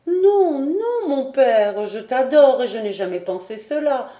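high, loud cry easing downward; fervent protest. A narrator's reading. Daughter protests her love to father. (protestation passionnée)

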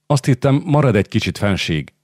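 disappointed call. Acted. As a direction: call after him, hurt and disappointed. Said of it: "kiáltott utána Eszter csalódottan".

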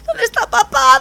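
put-on high child voice, whiny; high baby stork whine. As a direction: squeak it like a little chick asking for dad. Baby stork asks for dad.

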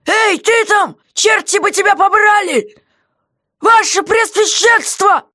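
high, loud, demanding; jailer's voice, cross and insistent; angry jailer. Acted. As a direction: bark at the silent prisoner. Guard voiced by reader.

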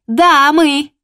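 high, loud yapping dog voice; proud little dog yapping back; yappy little dog. Acted. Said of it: "Хулиганки затявкали, гордо соглашаясь".

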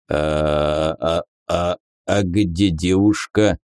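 stammering, tongue-tied and dazed; slurred speech. Acted. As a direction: slur it, stumbling on each word. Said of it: "заплетающимся языком спросил он". (заплетающимся языком)

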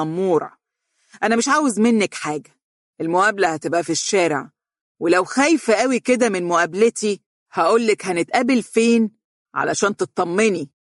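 spiteful, pressed words. Acted. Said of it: "ضغط حروف كلماته بغل واضح".

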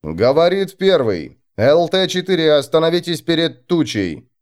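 lightly voiced commander on the radio; radio reply. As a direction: answer steadily over the radio. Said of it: "астрогатор ответил".

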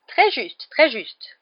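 high, loud squeak of a tiny professor; piping little voice, jumping up high; squeaky. A narrator's reading. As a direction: squeak agreement excitedly. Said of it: "couina le minuscule professeur Flitwick".

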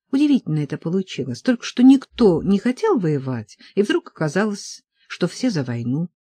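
usual speaking voice

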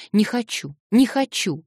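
high, loud, desperate no; a child's refusal rising to a shout. Acted. Girl's outburst of refusal.

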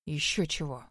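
низко и тихо буркнуть; отмахнуться ворчливым бурчанием; буркнул. A narrator's reading. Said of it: "буркнул Гроув". (ниже и тише, буркнуть сквозь зубы)

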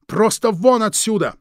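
high, loud furious cry; shouting. Acted. Louise screaming at Krieg to get out, loud and high. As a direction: throw him out with a yell. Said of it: "закричала Луиза".

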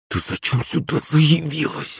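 slow, soft, hissing question; a soft angry hiss through the teeth. A narrator's reading. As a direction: hiss it at her mother, slowly and quietly. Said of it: "прошипела маман".

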